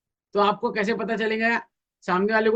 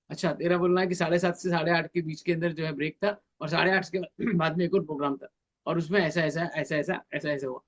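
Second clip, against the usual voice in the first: active listener recap; 3 semitones lower, 5 dB quieter than usual. Shown as a demonstration. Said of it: "आप उसको recreate कर रहे हैं".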